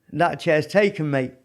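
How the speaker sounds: put-on light Geordie accent, half-done; a hint of a Geordie accent. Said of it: "however they say it in a Geordie accent".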